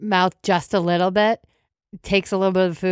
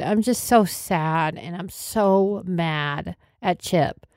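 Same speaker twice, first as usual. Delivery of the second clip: sad; much slower than usual. Acted. Sad apology.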